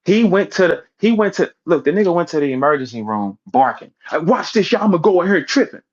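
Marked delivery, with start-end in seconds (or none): 4.1-5.8 mock boast. Imitating Holla's boast.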